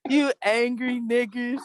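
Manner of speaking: laughing through a mock rant. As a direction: laugh while mimicking. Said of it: "mocking the caller, laughing".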